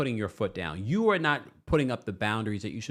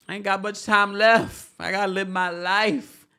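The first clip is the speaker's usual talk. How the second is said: higher, lightly voiced pleading; mock Kandi; 9 semitones higher, 5 dB louder than usual. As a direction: plead dramatically. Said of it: "She's just like".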